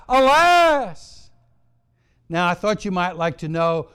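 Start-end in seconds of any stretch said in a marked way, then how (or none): 0.1-1.3 loud, high, drawn-out mock wail of alarm; crying out. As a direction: cry it out in acted distress. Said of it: "he cries out".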